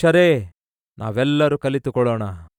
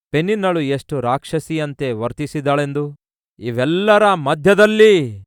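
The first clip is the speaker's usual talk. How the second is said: raised, earnest prayer to God over music; fervent prayer. Acted. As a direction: pray aloud with rising fervour. Closing prayer.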